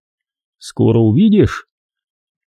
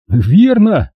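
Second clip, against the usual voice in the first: toothy grin; 8 semitones higher than usual. A narrator's reading. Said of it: "оскалился он".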